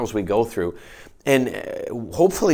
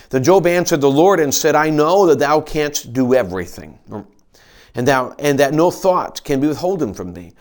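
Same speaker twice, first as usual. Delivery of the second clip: raised, measured Bible reading voice; scripture reading. Acted. Pastor reading Job to his congregation, raised and measured. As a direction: read the King James words out to the church.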